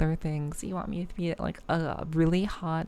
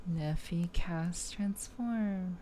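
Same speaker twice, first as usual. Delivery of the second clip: put-on magical girl incantation; 6 dB quieter, much slower than usual. Mock magical girl spell.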